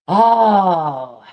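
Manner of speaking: long exasperated "oh"; real drawn-out moan of frustration; frustrated groan. Real, not acted. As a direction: groan at your own blank memory. Frustrated at forgetting a name.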